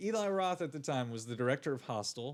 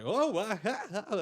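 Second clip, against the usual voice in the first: mock background cheering; 7 semitones higher, 4 dB louder than usual. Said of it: "and they're just like".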